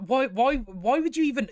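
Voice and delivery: baffled, pitched high, sputtering; exasperated. Real, not acted. Reviewer sputters at Theo, baffled and pitched high.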